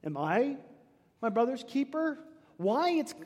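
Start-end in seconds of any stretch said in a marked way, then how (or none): 0.0-2.2 condescending. Acted. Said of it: "condescending response".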